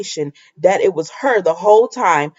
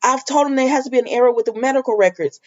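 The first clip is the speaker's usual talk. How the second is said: fast mock plea; 3 semitones higher, faster than usual. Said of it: "Victoria was pulling at any straws".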